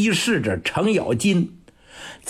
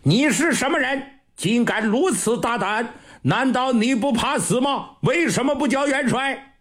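higher, fast indignant questioning; angry demand; 6 semitones higher than usual. Acted. Marshal angrily interrogates the old general, high and fast. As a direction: demand it with outraged authority.

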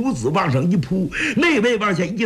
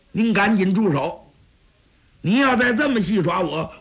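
angry protest. Acted. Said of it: "这一下把蒋昭气急了".

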